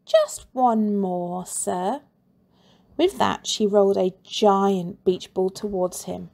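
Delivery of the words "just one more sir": sly coaxing. Acted. Rebel coaxing teacher.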